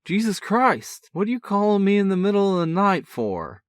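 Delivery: sleepy brother's mock-indignant bark, pitched high. A narrator's reading. Woken brother barking into the phone, mock indignant. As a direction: bark it out, half annoyed, half amused. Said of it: "barked Eric".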